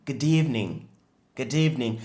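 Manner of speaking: Good evening with evening stressed. Shown as a demonstration. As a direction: lean on evening. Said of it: "L'accentuation est sur evening". (Good evening, accent sur evening)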